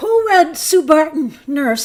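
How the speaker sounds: loud shouting with excitement. Host reading out viewers' names and messages, getting excited: excited shouting. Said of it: "I'm shouting. I'm sorry. I'm getting excited".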